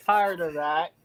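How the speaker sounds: loud, high, drawn-out plea; mock exasperation. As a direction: lay it on slow and loud, playfully fed up. Joins the mock rant at Karens.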